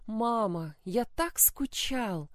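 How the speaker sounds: put-on high, slow child's voice near tears; a little boy crying with relief; tearful child voice. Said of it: "сквозь слёзы признался Валентин".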